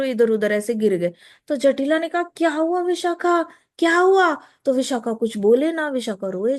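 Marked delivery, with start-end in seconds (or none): 2.2-4.4 alarmed question. Acted. Mother-in-law alarmed at crying girl.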